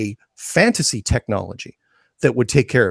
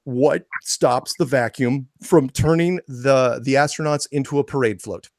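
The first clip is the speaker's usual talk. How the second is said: rant. Real, not acted. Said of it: "that's the end of my little rant".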